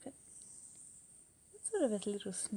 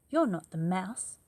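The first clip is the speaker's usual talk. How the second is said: loud; 2 semitones higher, 9 dB louder than usual. Acted. Child confronts snake.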